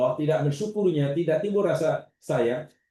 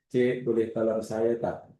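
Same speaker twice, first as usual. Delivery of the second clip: calm, polite plea for help, no urgency; polite request; 4 semitones lower than usual. Retold or imitated. Preacher voicing a trapped crash victim, asking politely. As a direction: ask a passerby nicely, unhurried. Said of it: "Macam agak, enggak nadanya".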